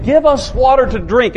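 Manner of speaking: a serious, demanding tone, a touch rough; quarreling demand. Shown as a demonstration. Preacher voicing the quarreling Israelites, mildly demanding. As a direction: demand it like thirsty, quarreling people. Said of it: "read this with a quarreling attitude".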